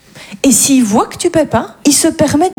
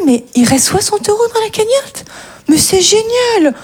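une pointe de collègue ravi, plus aigu; tocard enthousiaste; 6 semitones higher than usual. Retold or imitated. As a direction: imiter le faux généreux tout excité. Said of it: "t'as toujours un tocard qui est là". (collègue faussement ravi, voix plus aiguë)

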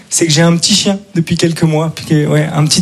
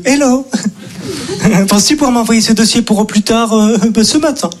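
mocking a chirpy colleague; 3 semitones higher than usual. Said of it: "collègues qui m'envoient des mails".

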